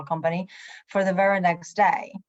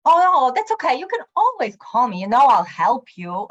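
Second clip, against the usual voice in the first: much higher and louder, gushing reassurance; sudden friendliness; 5 semitones higher, 6 dB louder than usual. Retold or imitated. Coworker suddenly gushing that she can always call. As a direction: flip from angry to eager helper.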